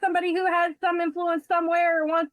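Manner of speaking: overwhelmed and starting to cry; choked-up disbelief at good news; tearful amazement. Real, not acted. Overwhelmed recalling help arriving.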